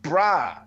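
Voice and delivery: "bra" with an open ah vowel; saying "bra". Shown as a demonstration. Host showing the wrong word to co-hosts, "bra" with open ah. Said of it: "It's not bra. It's bruh".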